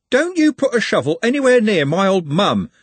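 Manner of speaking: high, loud outraged cry; tearful scream. A narrator's reading. Trev defends his mother's grave from Hicks, screamed tearfully. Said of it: "Trev screamed, tears rolling down his face".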